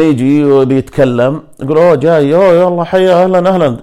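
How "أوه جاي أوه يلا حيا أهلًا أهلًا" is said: high, loud hammed-up Italian greeting; exaggerated fake Italian welcome; mock Italian accent. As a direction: imitate an Arab posing as Italian, playfully. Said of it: "يصير غوار كذا، كأنه جاي من إيطاليا".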